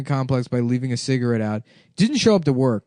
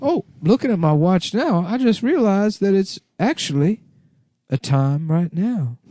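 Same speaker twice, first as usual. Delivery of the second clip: hammy lawyer voice; 6 semitones higher than usual. Pretend. Mock lawyer courtroom bit.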